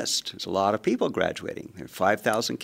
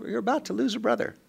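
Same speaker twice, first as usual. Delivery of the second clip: higher, fast ominous warning; mock menace; 12 semitones higher, 3 dB quieter, faster than usual. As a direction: warn the brothers in a rush. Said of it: "I'm telling his brothers".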